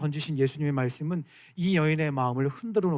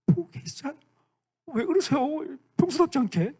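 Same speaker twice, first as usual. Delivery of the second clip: exasperated plea; 10 semitones higher than usual. Retold or imitated. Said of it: "그래서 이러는 거야".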